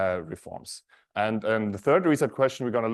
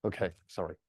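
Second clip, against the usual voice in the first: stage fright; 3 semitones lower, 10 dB quieter than usual. Real, not acted. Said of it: "Sorry, I'm a bit nervous".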